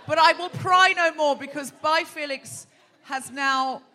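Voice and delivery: giggling while teasing the guest; laughing. Real, not acted. Host laughing as she teases Felix.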